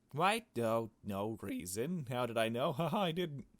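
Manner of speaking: high, giggly mock excuse; playful skit. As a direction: ham up the awkward dodge. Acting out a suspicious exchange.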